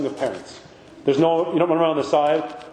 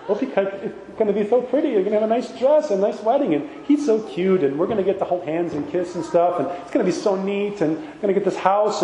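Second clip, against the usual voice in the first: giddy bride-to-be; 3 semitones higher than usual. Pretend. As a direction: gush about the dress and the cute groom, half laughing. Mocking a starry-eyed bride-to-be.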